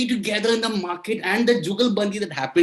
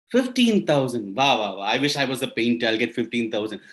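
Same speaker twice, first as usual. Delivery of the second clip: amazed listener; 8 semitones lower than usual. Acted. Audience member voiced, amazed.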